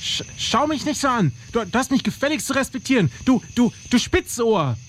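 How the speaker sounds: high, stammering bravado; nervous bluster. Acted. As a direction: fake toughness over fear. Blustering at an intruder.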